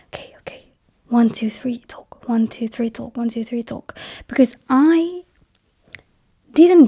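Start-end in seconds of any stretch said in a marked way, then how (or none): 0.1-4.0 hushed whispered countdown to herself; almost silent self-coaxing, much softer; anxious inner countdown. Retold or imitated. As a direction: count yourself in under your breath, nervously. Inner voice forcing herself to speak.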